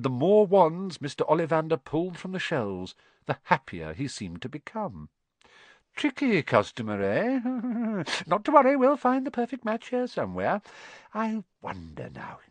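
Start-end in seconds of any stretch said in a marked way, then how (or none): 5.9-12.4 much higher, delighted with laugh; gleeful wandmaker. A narrator's reading. Wandmaker enjoys the hard search, gleeful. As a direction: relish the challenge. Happier with each wand.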